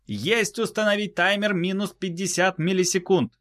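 high crisp readback; high confirming voice. Acted. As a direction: repeat the order back sharply. Crew repeats timer order.

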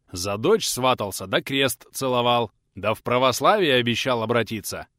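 loud, aggrieved ruler pleading his case; a grand duke thundering about broken oaths; indignant prince. Acted. Prince Dmitry's grievance speech.

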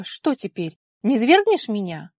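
loud cheeky taunt; defiant challenge. A narrator's reading. Daughter taunting her furious father, loud and defiant. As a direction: dare him to do it.

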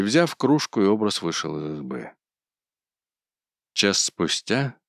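usual speaking voice

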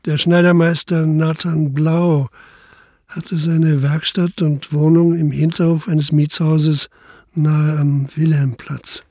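slow, steady narrator voice; measured scene-setting narration; story narration. A narrator's reading. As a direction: read it like the narrator of a radio play. Narrator sets the next scene.

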